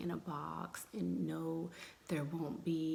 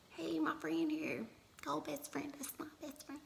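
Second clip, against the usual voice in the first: whispering; 10 semitones higher than usual. Real, not acted. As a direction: keep it a hushed whisper. Whispers greeting a friend.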